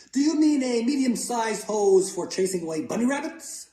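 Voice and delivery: put-on high, loud childlike questioning; eager little boy. Luke asks his father about the hose, high eager boy voice. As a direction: pitch it way up like a hopeful kid.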